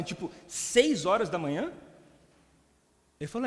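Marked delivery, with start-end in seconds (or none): 0.0-1.7 slow, disbelieving echo with a rising end; incredulous question. Retold or imitated. Questioning the pastor about the early start, incredulous. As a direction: draw it out as a baffled question.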